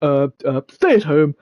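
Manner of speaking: bumbling, stammering politician impression; lightly mocked hesitant posh statesman; Boris Johnson. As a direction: stumble through it with repeated uhs. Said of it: "Boris Johnson, where he goes".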